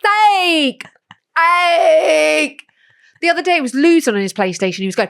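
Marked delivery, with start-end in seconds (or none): 0.0-2.6 high frustrated bark; frustrated kid. Retold or imitated. Boy losing at PlayStation, snapping sake. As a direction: spit it out in annoyance. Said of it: "he goes like".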